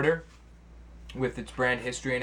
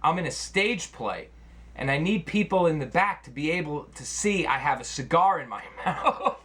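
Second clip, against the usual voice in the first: laughing while quoting; 5 semitones higher than usual. Retold or imitated. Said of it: "He says".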